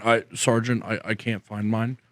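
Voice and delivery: lightly voiced soldier confessing to his sergeant; sheepish junior soldier.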